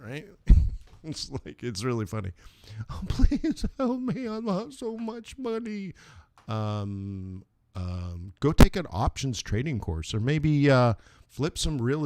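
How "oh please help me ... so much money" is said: much higher, pleading mock whine; hammed-up whiny plea; whiny desperate viewer. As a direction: beg for help like a panicked trader.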